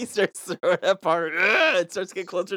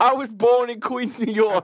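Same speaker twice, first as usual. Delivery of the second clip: put-on mild New York accent; 4 semitones higher than usual. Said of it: "a thick New Yorker accent".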